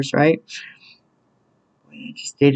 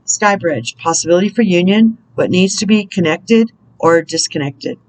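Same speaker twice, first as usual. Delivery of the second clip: measured, deliberate reading with spaced phrases; read-aloud spiritual message; 2 semitones higher than usual. Real, not acted. Reader guiding listeners through a roadblock, measured inspirational reading. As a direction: read it out as guidance, pausing between thoughts.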